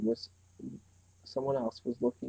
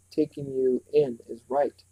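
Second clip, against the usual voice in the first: slow, dry sarcastic retort; 7 dB louder, slower than usual. A narrator's reading. Meg mocking the boy's phrase back at him. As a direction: throw his words back at him.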